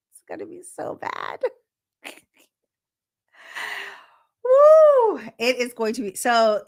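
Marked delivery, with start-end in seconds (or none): 0.1-2.1 hint at something naughty; hushed tease. Real, not acted. Teasing quiet aside. 4.4-5.2 high loud whoop; excited whoop. Real, not acted. Excited cheer.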